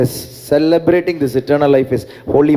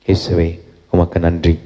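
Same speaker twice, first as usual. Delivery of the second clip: prayer; 7 semitones lower than usual. Real, not acted. Closing short prayer to Jesus.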